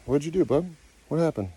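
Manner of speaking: high, concerned coaxing; coaxing question. Real, not acted. Owner asking the monkey what happened, high coaxing.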